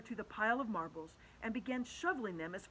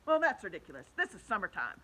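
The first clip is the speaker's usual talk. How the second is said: scoffing; 6 dB louder than usual. Acted. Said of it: "the centipede said".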